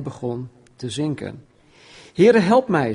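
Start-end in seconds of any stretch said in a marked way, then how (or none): 2.1-2.9 higher, louder cry for help; Peter screaming. Acted. Sinking Peter crying to the Lord, mock desperate cry. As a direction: call out as if sinking. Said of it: "schreeuwde hij".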